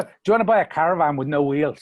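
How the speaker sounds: put-on lightly done Irish Traveller accent, quick; a hint of a salesman's Irish Traveller accent; Brad Pitt gypsy accent. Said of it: "he did the gypsy accent".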